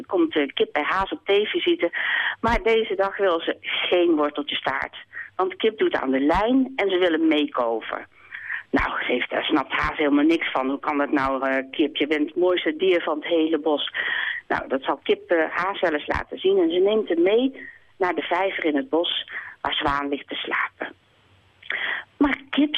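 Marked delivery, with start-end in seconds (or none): 2.4-20.9 calm read-aloud storytelling; reading a children's book on the radio; story narration. A narrator's reading. Author reads her book aloud. 22.2-22.8 higher, lightly voiced kind hare; a friendly hare gently correcting; the hare reassuring the hen. Haas speaking in read story.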